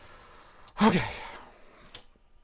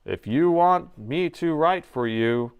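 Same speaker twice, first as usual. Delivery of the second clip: slow, droning speechwriter voice; slow and lifeless, as if reading a dull speech; boring monotone; 3 semitones higher, slower than usual. Pretend. Joking to the president about writing speeches, slow, boring monotone. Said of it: "I will write it in this tone".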